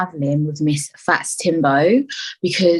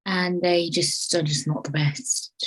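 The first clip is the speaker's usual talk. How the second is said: slow whispered admission; whispered aside; 7 dB quieter, slower than usual. Real, not acted. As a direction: hush it, slowly. Dropped aside.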